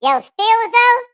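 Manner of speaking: very high, slow chipmunk voice. Real, not acted. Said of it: "it's a kid voice".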